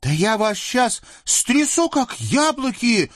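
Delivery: high, menacing cry at the devils; furious threat. Acted. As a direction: shake them down like apples. Казачка грозит трясти дерево. (яростная угроза)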